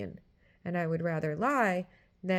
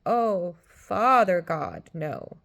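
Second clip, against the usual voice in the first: louder, slow stricken cry; dismayed realization; 6 dB louder, much slower than usual. Retold or imitated. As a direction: catch yourself in dismay. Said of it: "suddenly I realized".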